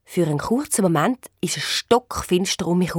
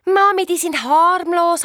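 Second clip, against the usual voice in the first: higher, louder, slow call upstairs; 10 semitones higher, 4 dB louder, slower than usual. A narrator's reading. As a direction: call back to mother up the stairs. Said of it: "habe ich zurückgerufen".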